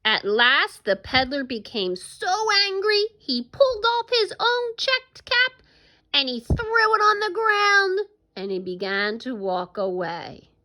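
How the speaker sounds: animated storytelling with big swings in pitch; story read-aloud. Acted. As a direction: read it to children, drawing out the key moments.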